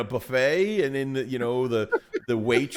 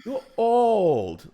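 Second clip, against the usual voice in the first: higher, lecturing waitress voice; imitating waitress; 4 semitones higher, slower than usual. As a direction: scold him like a bossy waitress. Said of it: "And it's like".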